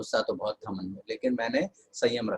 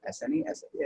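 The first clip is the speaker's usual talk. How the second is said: gentle correcting; 11 semitones higher, 4 dB quieter than usual. Retold or imitated. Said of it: "मैंने इनको समझाया".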